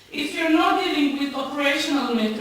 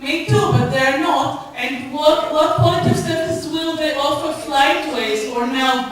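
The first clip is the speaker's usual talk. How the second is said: louder, cutting in over the chair; heated interruption; 2 semitones higher, 6 dB louder than usual. Real, not acted. Campaigner cutting in on the panel member, raised and heated. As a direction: push back hard, raised voice, refusing to wait.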